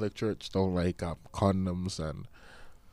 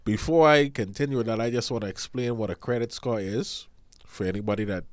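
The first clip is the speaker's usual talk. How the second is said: stuffy blocked-nose voice; nasal voice. Real, not acted. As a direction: talk through a blocked sinus. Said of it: "I apologize if I sound nasally".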